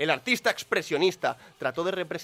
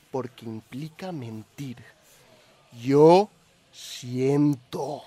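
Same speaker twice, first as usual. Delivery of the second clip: wild overacting. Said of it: "Así se defiende el tío".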